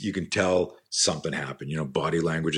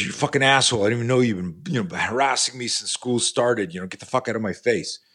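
higher-pitched retold outburst; imitated indignant rant, pitch raised; angry standing up; 5 semitones higher than usual. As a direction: act out a teenager finally asserting himself. Student stands up to the bully.

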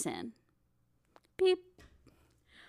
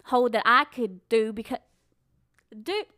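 put-on Southern accent; 3 semitones higher, 3 dB louder than usual. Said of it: "mocking people's accents".

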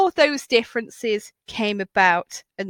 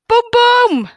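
high, loud, hammed-up "boom, boom" flourish; mock drum punchline; 13 semitones higher, 6 dB louder than usual. Host capping a listener's Soviet joke, hammed-up and high. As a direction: hit the punchline like a rimshot.

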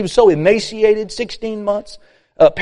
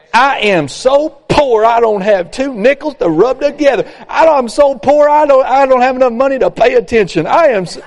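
mock poor whining; 5 semitones higher than usual. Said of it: "Let the poor say".

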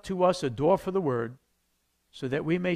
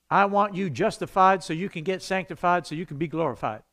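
mock Southern preacher reeling off big words; lightly put-on Southern accent. Shown as a demonstration. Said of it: "why am I using a southern accent when I do that".

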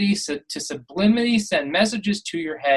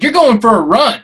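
bossy inner voice; 5 semitones higher, 9 dB louder than usual. Retold or imitated. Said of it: "It's like".

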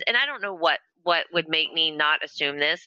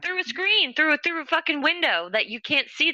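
incredulous outburst; 8 semitones higher than usual. Real, not acted. Exasperated rant.

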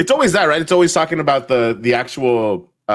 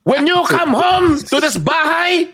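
high-pitched scolding Filipino mom; Filipino mom accent. Retold or imitated. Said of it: "in a Filipino accent".

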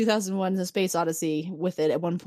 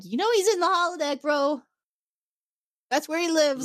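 high, laid-back bro voice; a chill dude talking; casual bro computer voice; 7 semitones higher than usual. Retold or imitated. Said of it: "Computer's like".

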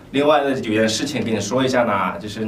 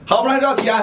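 ordinary talk, nothing marked

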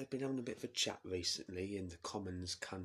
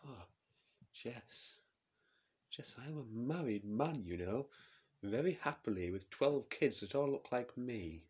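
Jacob Rees-Mogg; 3 semitones higher than usual. Acted.

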